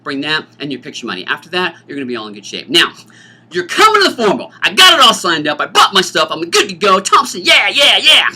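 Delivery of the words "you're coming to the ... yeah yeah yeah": excited student. Pretend. Excited student voiced by teacher.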